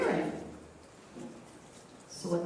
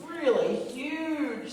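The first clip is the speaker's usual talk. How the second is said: "really huge" stretched slow; drawn-out emphasis; 5 semitones higher, much slower than usual. Shown as a demonstration. Storyteller describing giant speakers, "really huge" stretched out. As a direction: draw out "really huge" to show the size.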